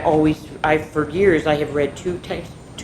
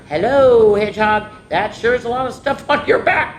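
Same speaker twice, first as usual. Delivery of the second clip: croaked; 4 semitones higher, 5 dB louder than usual. Acted. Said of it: "croaked the frog".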